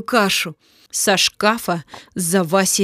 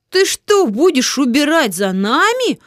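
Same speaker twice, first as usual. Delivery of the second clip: surprised; 4 semitones higher than usual. Acted. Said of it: "удивились дети".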